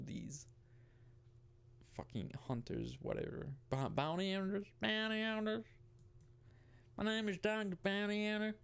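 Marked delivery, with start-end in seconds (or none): 3.7-8.5 playful Southern hick voice, pitched up; southern hick accent. Pretend. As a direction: ham up a Southern country accent. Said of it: "I'm doing a, a southern hick accent".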